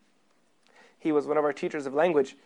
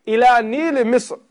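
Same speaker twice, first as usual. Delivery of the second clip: Ila Nil Misr spoken slowly and loudly, each word drawn out; slow recited address; 5 semitones higher, 7 dB louder, slower than usual. Shown as a demonstration. Teacher reads the letter's address slowly and loudly to the class. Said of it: "No, the, the Nile of Egypt".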